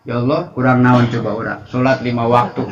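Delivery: mock grumbling at God; coarse complaint. Shown as a demonstration. Preacher shows congregation how not to address God, coarse complaining. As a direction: act out an ill-mannered complaint in prayer. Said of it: "jangan sampai ke Allah kasar gitu".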